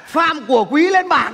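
lightly voiced teacher calling a pupil up; teacher calling roll. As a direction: call the name out like a teacher. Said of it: "cô giáo gọi là".

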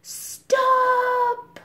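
high, loud shouted halt; high loud command. Acted. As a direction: bellow it like an old soldier. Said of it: "Syne shouted".

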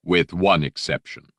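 smooth, firm interruption; silky menacing Vader. Acted. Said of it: "that silky, menacing voice".

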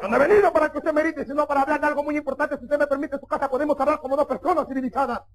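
brisk, indignant suitor; firm rebuke. Acted. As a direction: rattle off a formal protest. Suitor stands up to shouting father.

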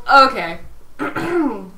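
ordinary talk

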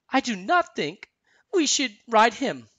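high, measured cartoon voice; high-pitched snowman giving a wary opinion; Olaf. A narrator's reading. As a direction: say it high, word by careful word. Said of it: "Olaf said".

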